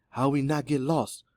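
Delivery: mildly trembling character voice. A narrator's reading. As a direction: ask slowly with a touch of worry. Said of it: "her voice trembling".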